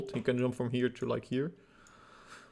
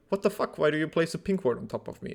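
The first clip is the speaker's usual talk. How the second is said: raised, outraged monster voice; indignant Drake; 3 semitones higher, faster than usual. Retold or imitated. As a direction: play the annoyed dragon. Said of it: "the Drake is like".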